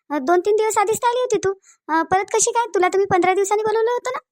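puzzled questioning. Acted. Doctor to a patient back too early, puzzled questioning. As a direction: question her unexpected return.

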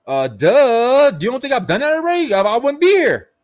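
mock the obvious advice; incredulous sarcasm; sarcastic duh. Real, not acted. Mocking the seminar advice.

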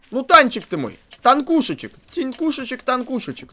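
a hint of cooing to a pet; mock cooing. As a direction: sweet-talk the monster mockingly. Coos to the monster.

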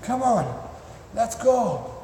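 acted pet starting to tire of waiting; dog losing excitement. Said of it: "So after ten minutes".

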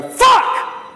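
high, sharp mock scream of the swear; retold loud swear. Singer swears live on air, high mock scream. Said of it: "really loud".

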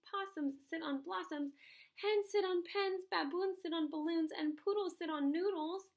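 a cat ticking off every rhyme in one go; reciting cat. Acted.

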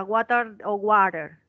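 británico y luego americano; British versus American. Shown as a demonstration. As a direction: contrast the British and American "water". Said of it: "Si vamos a hablar británico es water".

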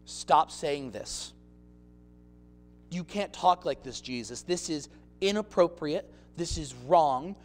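a mild hushed scolding; hint of a scolding Peter. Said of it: "Pulls him aside".

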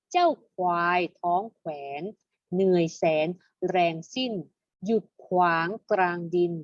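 teacher's measured poem recitation; verse reading. Shown as a demonstration. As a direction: recite the verse in short, separated phrases. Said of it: "มาอ่านเป็นบทร้อยกลองกันดีกว่า". (อ่านบทร้อยกลองเป็นวรรค ชัดถ้อยชัดคำ)

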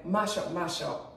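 Jamaican accent on "mash up". Real, not acted. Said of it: "I'm saying in Jamaican".

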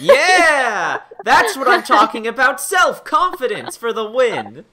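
excited. Real, not acted. Host cheering on self-confidence.

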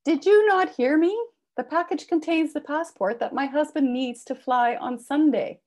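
high, loud exasperated blurt; shouted frustration at a stubborn clerk; exasperated outburst. Acted. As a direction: lose patience with the mailman. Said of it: "I blurted out".

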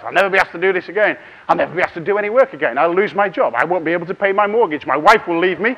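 hammed-up spiral of doom, quick then building loud; catastrophizing. Speaker acts out panicked thoughts before an audience, mock catastrophizing. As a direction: pile up mock disasters to a loud climax. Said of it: "And then we catastrophize".

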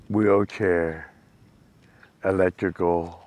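talking loud over the wind; loud calling out. Real, not acted. Loud shouted wish about trike.

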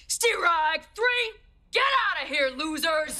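high, falsely sweet kiss-off; mock-nice dismissal. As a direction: throw them out in a high, would-be nice voice. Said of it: "how do I say this nicely".

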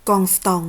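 กองสตอง said French-style, nasal vowels, no final n; French pronunciation. Shown as a demonstration. ออกเสียง กองสตอง แบบฝรั่งเศส. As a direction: pronounce กองสตอง the French way, carefully. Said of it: "กรุณาอ่านออกเสียงให้เป็นฝรั่งเศส".

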